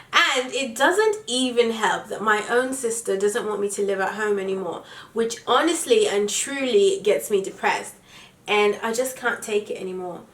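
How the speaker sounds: reading aloud in a put-on British accent. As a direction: read it like a Brit. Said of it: "read it in my British accent".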